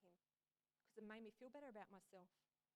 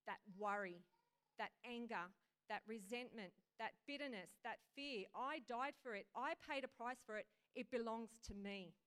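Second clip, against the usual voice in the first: much louder, declaiming each item; forceful proclamation; 7 dB louder than usual. Acted. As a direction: proclaim ownership with full force. Jesus voiced claiming sins back.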